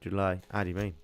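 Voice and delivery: put-on light Birmingham accent; a hint of Brummy. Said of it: "I wanna say it in a Brummy accent".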